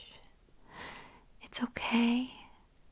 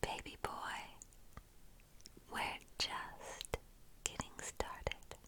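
teasing hush; 23 dB quieter than usual. Acted. Seductive whispered tease.

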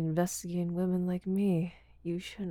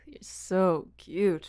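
very slow, louder whisper stretching so; slow whispered praise; 7 dB louder, much slower than usual. Acted. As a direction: savour every word slowly.

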